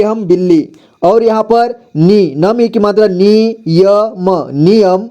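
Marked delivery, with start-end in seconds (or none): 3.7-4.5 य and म as separate sounds; spelling out. Shown as a demonstration. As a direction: sound out य, then म. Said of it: "एक ही बार में पढ़ेंगे".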